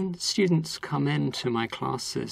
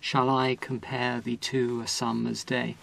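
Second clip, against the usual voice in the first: "Shall I compare thee to a summer's day?" with every second syllable leaned on; accented iambic reading. Shown as a demonstration. Teacher reads Shakespeare to show the iambic beat. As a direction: read the line so the da-dum beat shows. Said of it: "you don't have to accentuate it that much".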